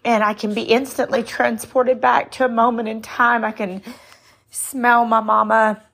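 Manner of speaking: choked up with fond memories, halting between phrases; real tearful voice. Real, not acted. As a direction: hold back tears while remembering mama. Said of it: "I'm grabbing myself a tissue".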